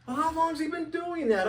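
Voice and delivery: amazed he's done it for years; retold astonishment; surprised question.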